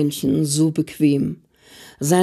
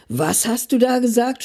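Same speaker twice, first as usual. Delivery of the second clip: a raised, outraged question, pitched higher; mock shout; 4 semitones higher than usual. Mother shouts at her father in the train, raised voice. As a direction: shout it up at your father, half-acted. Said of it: "schrie ich auf meinen Vater".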